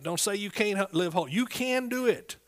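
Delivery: ordinary talk, nothing marked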